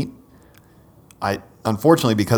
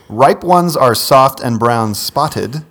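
poem reading. Acted. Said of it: "another lovely ode to fruit".

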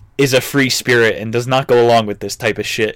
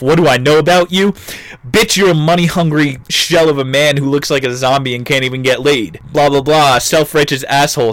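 mock rant; 3 semitones higher than usual. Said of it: "So Anthony just went off".

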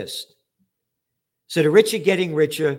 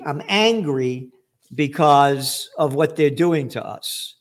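angry; 3 dB louder, slower than usual. Real, not acted.

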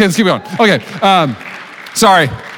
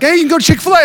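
friend's voice; 13 semitones higher, 5 dB louder, faster than usual. Retold or imitated. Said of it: "she's like".

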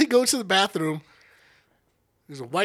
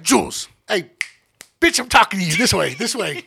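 put-on act; 4 dB louder than usual. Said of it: "let's put on the act".

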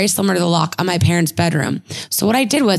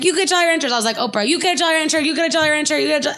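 excited Oprah-style giveaway; 7 semitones higher, much faster than usual. Retold or imitated. Handing out candy like Oprah.

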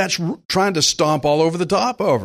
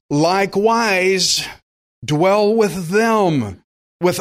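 slow, deliberate preacher reading out a verse; scripture reading; slower than usual. Acted. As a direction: proclaim it phrase by phrase, drawing out key words. Reads scripture to the congregation.

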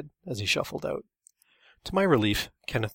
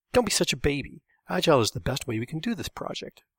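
taunting; 4 semitones higher than usual. Acted. Kenneth taunting Todd.

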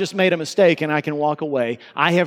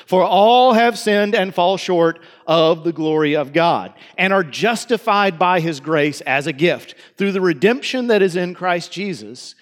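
scripture reading. Acted. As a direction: read the passage aloud with weight. Reads scripture passage aloud.

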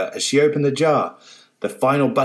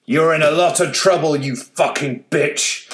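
screamed; 3 semitones higher than usual. Acted. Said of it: "screamed the old man".

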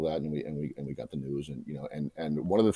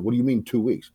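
demanding; 6 semitones higher, 6 dB louder than usual. Retold or imitated. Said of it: "I chased him down the hall".

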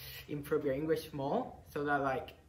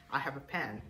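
native-style English; imitating a native English accent; faster than usual. Shown as a demonstration. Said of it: "try to imitate the English accent".

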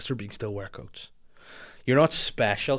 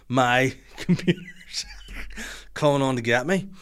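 mock spooked whisper. Spooked by his computer switching on, a mock-scared whisper. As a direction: whisper it like the computer is haunting you.

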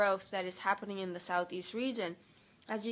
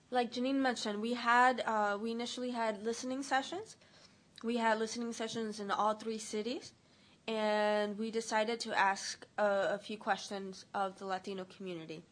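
talking around a cough drop; sucking a cough drop. Real, not acted. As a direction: lozenge in the mouth, slightly muffled. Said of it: "I have a cough drop in my mouth".

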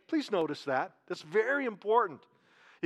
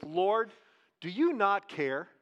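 Martha's complaint; slower than usual. Retold or imitated. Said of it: "She said".

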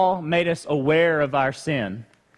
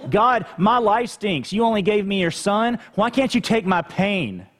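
higher, whining grumble at God; mock a spoiled complainer, pitched up; whiny complaint; 5 semitones higher than usual. Preacher mimicking an ungrateful believer, whiny and higher. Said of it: "But don't we?".

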